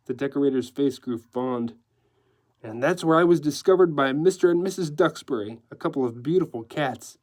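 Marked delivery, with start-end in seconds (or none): 2.6-7.2 lively decorator with French flourishes; breezy decorator. Acted. Decorator offering newsman his mad tale, breezy. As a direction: offer the tale with showy zest. Decorator's lines in narrated story.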